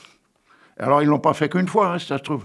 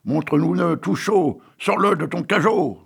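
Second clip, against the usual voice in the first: higher, louder mob demand; crowd shouting; 5 semitones higher, 3 dB louder than usual. Acted. Crowd demanding the girl's heart, mild mob shout. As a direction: call it out like a bloodthirsty crowd. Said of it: "Mais les voilà qui crient".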